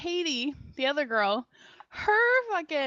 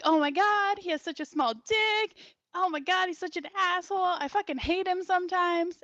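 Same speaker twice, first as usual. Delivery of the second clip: mock-obnoxious drunk griping, pitched up a little; loud and obnoxious; 3 semitones higher than usual. Girl griping about her boyfriend, obnoxious. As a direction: imitate a girlfriend loudly running someone down. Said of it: "being really loud and obnoxious".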